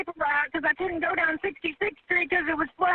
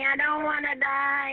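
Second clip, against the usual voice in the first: real fear; 4 semitones lower, slower than usual. Real, not acted. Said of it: "Oh, I'm scared".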